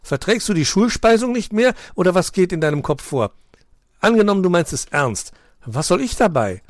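mocking husky. A narrator's reading. Bronco mocking on phone.

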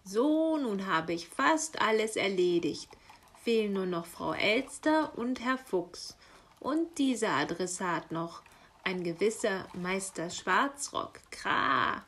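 lively, contented chuckle in the words; pleased, amused raven. Acted. Raven reviewing his last deliveries, pleased and amused. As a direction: tick off the list with relish. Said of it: "schmunzelte der Rabe vergnügt".

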